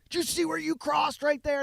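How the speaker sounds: high imitated officer questioning; imitating the cop scolding the jaywalker; mock cop voice. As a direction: play the cop pointing at the crossing. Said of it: "He goes".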